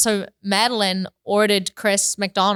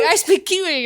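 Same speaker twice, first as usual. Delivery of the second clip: put-on higher-pitched, jokey Kiwi accent; imitating a Kiwi speaker; mock Kiwi accent; 5 semitones higher than usual. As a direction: put on a playful New Zealand accent. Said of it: "He likes to speak Kiwi".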